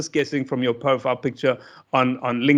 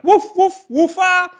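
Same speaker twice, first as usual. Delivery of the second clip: very high, loud yappy woofs; lively dog bark; 7 dB louder than usual. Retold or imitated. Comedian imitates the Fordsburg dogs barking, high and loud. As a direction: yap it out bright and bouncy. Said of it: "Muslim dogs sound more like".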